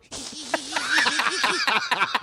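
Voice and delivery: high-pitched imitated laughing fit; helpless giggling, mimicked; imitated hysterical laughter. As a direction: act out a friend cracking up. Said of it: "And he started going".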